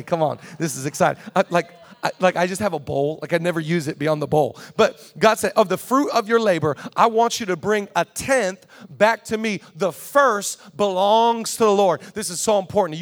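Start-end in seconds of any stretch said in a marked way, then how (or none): 4.8-12.0 loud, fired-up voicing of God's command; excited preaching. Real, not acted. Pastor fired up quoting God to the church, loud. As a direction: let the excitement carry it. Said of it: "I'm getting really excited today".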